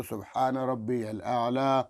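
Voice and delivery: slow, clear "سبحان ربی الاعلی"; slow tasbih. Shown as a demonstration. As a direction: say it once, calmly. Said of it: "ایک دفعہ بولو". (آرام سے ایک دفعہ تسبیح)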